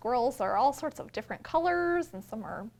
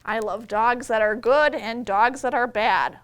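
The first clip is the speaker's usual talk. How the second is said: storybook reading; 8 dB louder than usual. A narrator's reading. Reading picture book aloud.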